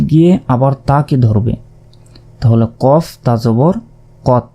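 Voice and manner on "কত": কত with the ক sounded twice, held and doubled; কত with a doubled, lengthened ক; kaf said twice. Shown as a demonstration. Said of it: "কফের উচ্চারণ কিন্তু দুইবার হলো".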